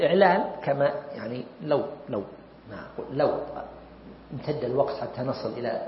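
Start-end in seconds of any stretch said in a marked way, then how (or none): none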